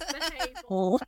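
amused, stretched-out repeat of "The hay ball"; careful pronunciation. Real, not acted. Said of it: "think about how I pronounce it".

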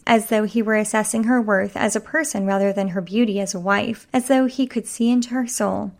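measured read-aloud of a romance novel; story narration. A narrator's reading. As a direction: read it as an audiobook narrator would. Reads an excerpt from her novel.

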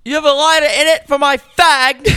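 put-on loud, high shouted British accent. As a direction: yell it like a rowdy London bloke in a British accent. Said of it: "You start saying it a ton".

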